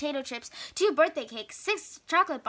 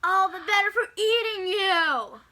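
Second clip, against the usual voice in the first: menacing wolf; 5 semitones higher, 4 dB louder than usual. Acted. Wolf reveals himself.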